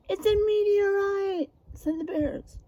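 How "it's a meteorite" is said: higher, eager animal voice; excited bear. Acted. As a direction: blurt out the guess. Bears voiced in story.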